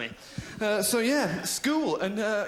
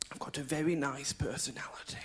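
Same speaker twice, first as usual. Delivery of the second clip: whispered confession; 5 dB quieter than usual. Real, not acted. Confessional aside.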